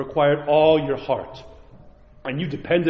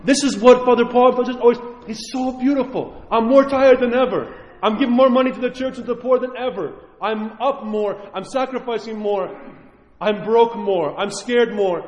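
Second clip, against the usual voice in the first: joyful testimony; 5 semitones higher than usual. Retold or imitated. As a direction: gush about the sacrificial life. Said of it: "you'll say".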